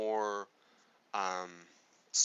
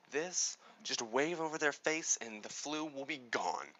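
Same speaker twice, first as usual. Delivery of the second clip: upbeat salesman pitch, louder and higher; energetic pitch demo; 4 semitones higher, 5 dB louder than usual. Shown as a demonstration. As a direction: sell it like a thrilled announcer. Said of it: "And say".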